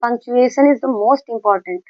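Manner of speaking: very slow, word by word; slow dictation. Shown as a demonstration. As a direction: spell it out slowly for the class. Teacher repeats key sentence slowly. (बहुत धीमे, शब्द-शब्द बोलकर)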